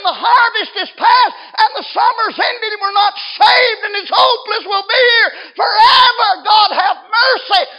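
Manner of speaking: very high, very loud wail of the damned; anguished shout. Acted. People in the lake of fire lament, anguished shouting. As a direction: scream out hopelessness, stretching key words. Acted cry of the damned at climax.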